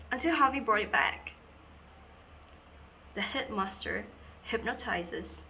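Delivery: earnest schoolgirl confiding, halting with long pauses; Dina. Acted. Schoolgirl tells two boys about being hypnotized in assembly, dramatic confiding. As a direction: confide a dawning, troubling realization in dramatic monologue.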